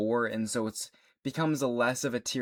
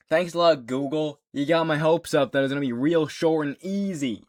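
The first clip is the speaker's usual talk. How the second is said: sarcastic thanks; 5 semitones higher, 5 dB louder than usual. Real, not acted. Mock thanks to Google.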